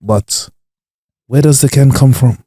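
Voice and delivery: mock-philosophical question, spaced out; Cantona's speech rhythm. Comedian asking about the can's origin, mock-profound oration. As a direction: pose it like a pondering orator. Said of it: "He got the rhythm of how to just captivate the room".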